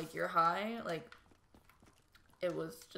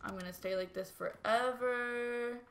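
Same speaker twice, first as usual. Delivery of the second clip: higher, drawn-out whine of dread; mock freaking out; 5 semitones higher, slower than usual. Recalling being high and scared of staying so, mock freak-out. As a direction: stretch the words out in mild retold panic. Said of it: "like, really freaking out".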